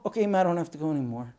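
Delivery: very fast, pitch dropped back down; resigned little girl. Acted. Girl who wet the floor, quickly giving up. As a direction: rattle it off, urgency suddenly gone. Girl gives up, has had accident.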